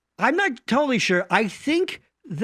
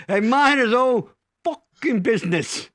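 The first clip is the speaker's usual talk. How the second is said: put-on repeating the punchline in a light New York Italian accent; a touch of New York Italian on the punchline. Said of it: "New York Italian accent".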